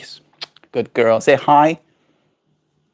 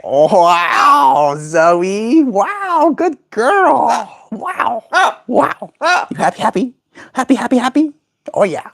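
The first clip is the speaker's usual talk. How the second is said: much higher, cooing wows; high delighted praise; 10 semitones higher than usual. Real, not acted. Owner praises her bird after the spin, high gushing baby talk. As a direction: gush over the pet like a proud parent.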